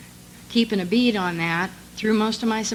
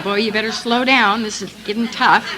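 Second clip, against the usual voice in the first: laughing joke; 5 dB louder than usual. Retold or imitated. Joking reply to sponsor, laughing.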